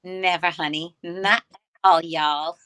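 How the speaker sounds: playful mix of a New York and an Alabama accent; New York attitude with an Alabama y'all, punched out loud. Shown as a demonstration. On the host's challenge, mock New York-Alabama accent mix. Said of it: "a cross between a New York accent and an Alabama accent".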